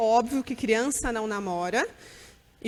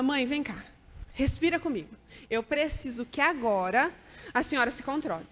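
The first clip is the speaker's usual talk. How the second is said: gentle, firm nurse voice; calm reassurance. Retold or imitated. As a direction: talk a panicking mother down. Nurse calming panicked mother.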